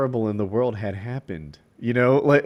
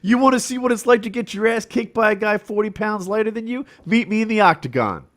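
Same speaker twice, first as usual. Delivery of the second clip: higher, bold trash-talk callout; mock fighter callout; 9 semitones higher than usual. Fighter challenging Brock Lesnar, bold hammed-up callout. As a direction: call him out like a brash fighter. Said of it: "he's like".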